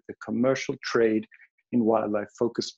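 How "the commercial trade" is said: "commercial" repeated with deliberate emphasis; emphatic stress. Real, not acted. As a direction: restate it, stressing the word "commercial". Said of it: "I really want to emphasize that word".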